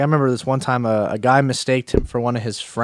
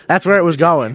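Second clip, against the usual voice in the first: higher, said through laughter; laughing; 4 semitones higher, 4 dB louder than usual. Real, not acted. Storyteller admits where fight was heading, laughing.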